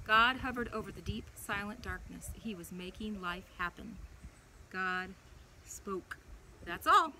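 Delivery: put-on gentle storybook read-aloud for a child; animated children's Bible story voice. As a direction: tell it like a bedtime story.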